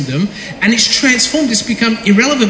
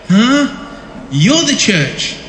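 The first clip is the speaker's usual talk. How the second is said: mock preaching; 3 semitones higher, much slower than usual. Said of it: "Preaching to him".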